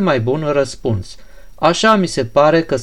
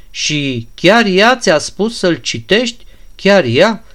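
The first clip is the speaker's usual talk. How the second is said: incredulous question; 5 semitones higher than usual. Acted. Ganea doubting the prince's word, high and incredulous. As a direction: press him, refusing to believe it.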